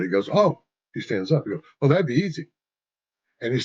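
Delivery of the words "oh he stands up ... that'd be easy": high, bright-eyed "Oh"; light it up like the answer is obvious; sudden eager realization. Retold or imitated. Blaine realizing he knows the fix, mildly excited and higher.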